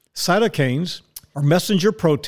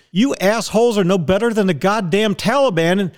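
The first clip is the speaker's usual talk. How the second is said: heated, raised-pitch tirade; genuinely pissed-off outburst; real angry rant; 4 semitones higher than usual. Real, not acted. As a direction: tear into them, pitched high. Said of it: "You're goddamn right I'm pissed".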